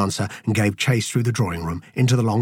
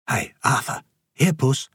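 coaxing a cat; 5 semitones higher than usual. A narrator's reading. Coaxing a cat to come closer.

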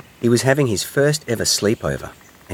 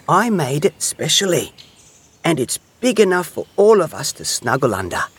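high-pitched, pleased little hedgehog; proud excitement; 9 semitones higher than usual. A narrator's reading. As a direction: show off a handmade gift eagerly. Hedgehog proudly shows blanket.

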